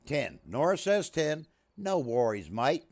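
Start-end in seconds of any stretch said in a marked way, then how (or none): 1.8-2.8 lightly put-on Australian catchphrase; attempted Australian accent. Shown as a demonstration. Streamer pleased with a ten, attempted Australian accent. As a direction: repeat the phrase in an amateur Australian accent. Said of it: "Sounded very good for a Kiwi".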